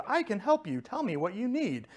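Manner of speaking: a mild imitation of a cheery automated phone tree. Caller mimicking the AT&T phone menu for viewers, mild mock automated voice. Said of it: "voice phone tree where it says".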